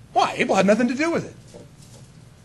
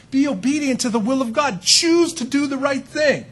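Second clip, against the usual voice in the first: pleading God; 8 semitones higher, 3 dB louder than usual. Retold or imitated. God pleading with his children to obey, earnest. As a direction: beg them gently to choose right. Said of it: "He's pleading with them".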